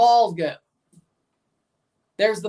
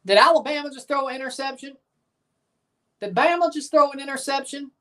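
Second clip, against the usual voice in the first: surprised; 5 semitones higher, faster than usual. Real, not acted. Shocked by Alabama interception news.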